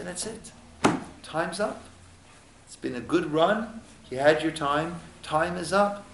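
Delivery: softly voiced heavenly judge; quiet verdict. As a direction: let them down softly. Heavenly court tells person it's over.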